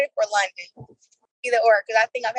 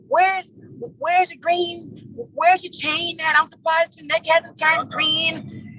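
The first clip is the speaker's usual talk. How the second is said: higher, drawn-out mock British taunt; pitched-up British mimicry, without real volume; retold yelling; 5 semitones higher, slower than usual. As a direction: mimic a British rival's slow jeer. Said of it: "she was yelling about".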